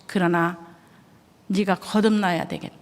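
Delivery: hushed whisper, soft and grave; whispered voice of God. Retold or imitated. God warning the missionary wife, whispered. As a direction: breathe it like a divine secret. God's voice speaking to her.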